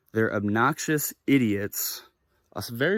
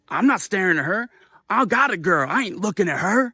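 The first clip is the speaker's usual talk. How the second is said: loud, raised-pitch protest; imitated defiant denial; 7 semitones higher, 4 dB louder than usual. Man denying he stared at her, mock indignant voice. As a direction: play the big guy protesting loudly.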